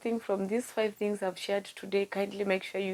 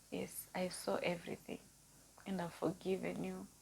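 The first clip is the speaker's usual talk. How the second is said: heavy heartfelt; 5 dB quieter than usual. Real, not acted. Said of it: "That was heavy".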